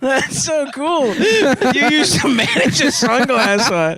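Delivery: fake-gush over it; mock enthusiasm. Mocking enthusiasm, high and slow.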